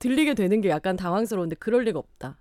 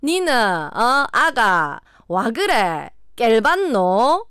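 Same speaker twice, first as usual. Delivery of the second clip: very slow Gyeongsang dialect, word by word; 경상도 사투리; 4 dB louder, much slower than usual. Shown as a demonstration. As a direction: spell out the Gyeongsang line at half speed for quiz listeners. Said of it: "이거 완전 네이티브가 됐죠?". (또박또박 아주 느린 경상도 사투리)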